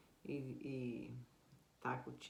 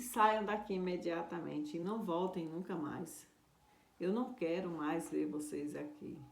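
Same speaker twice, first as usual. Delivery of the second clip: louder, higher bitter rant; angry dismissal; 3 semitones higher, 4 dB louder than usual. Acted. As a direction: order them out with rising anger. Sorcerer throws missionaries out. (expulsando com raiva, mais alto)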